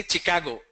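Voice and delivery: Chicago starting with hard "ch"; Chicago with ch as in chip; common wrong Chicago. Shown as a demonstration. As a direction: say Chicago as "chi-KAH-go". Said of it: "A lot of people say".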